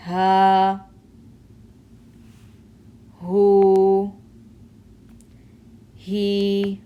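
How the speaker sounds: Ha, hu, he, each held long and loud from the throat; drawn-out throat ha. Shown as a demonstration. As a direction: sustain each vowel on ha. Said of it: "takes that full form".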